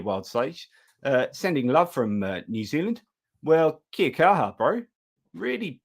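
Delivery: hammed-up Kiwi accent with swooping pitch; put-on New Zealand accent. Host thanking a New Zealand viewer, mock Kiwi accent. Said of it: "that's my awesome New Zealand accent done".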